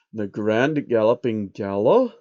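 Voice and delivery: slow, lightly voiced puzzled question; puzzled George. George reading the invitation, lightly puzzled. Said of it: "He raised an eyebrow".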